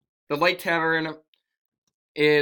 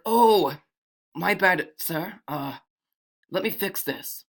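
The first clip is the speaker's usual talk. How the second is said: higher-voiced flustered apology; apologetic bartender; 4 semitones higher, slower than usual. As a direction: start on a high "oh", then soften. Bartender apologises to angry customer.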